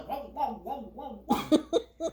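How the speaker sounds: pulsing revs imitated by voice; laughing mock engine revs; imitated engine revving. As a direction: mimic an accelerator being pumped.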